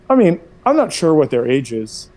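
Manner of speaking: playing dumb about the number; coy evasion. Shown as a demonstration. Son to mom, feigning he doesn't know. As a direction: innocent shrug of a line. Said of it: "I do know what their age is".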